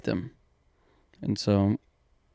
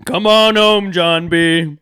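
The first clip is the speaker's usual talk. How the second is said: calling out; 4 semitones higher, slower than usual. Pretend. Calling character home.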